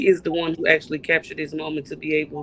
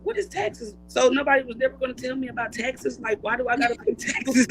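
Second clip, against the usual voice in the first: lightly voiced higher-pitched kid complaint; imitated indignant child; 6 semitones higher than usual. Mother imitates daughter shocked by store taxes, mock indignant. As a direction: mimic a kid protesting, pitched up.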